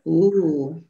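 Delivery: very slow, low "doing that thing again", breaking into laughter; long teasing "Ooh", then lingering on "thing"; suggestive tonality. Shown as a demonstration. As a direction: savour every word of "he's doing that thing", drawn out. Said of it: "in what tonality of voice".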